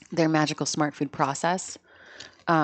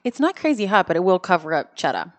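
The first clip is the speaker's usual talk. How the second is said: talking through a mouthful of popcorn; crunching while speaking; mouth full. Real, not acted. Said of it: "that's loud. I'm sorry about the crunching".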